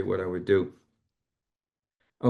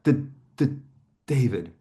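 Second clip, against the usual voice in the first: imitating a stutter. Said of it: "like that".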